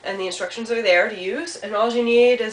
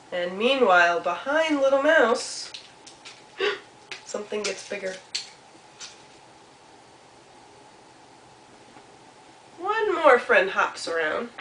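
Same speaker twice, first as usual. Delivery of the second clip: lilting narration with long suspenseful pauses; storytelling to children; 2 semitones higher than usual. A narrator's reading. Storyteller asks children what is happening, playful suspense. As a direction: draw young listeners in, musing between events.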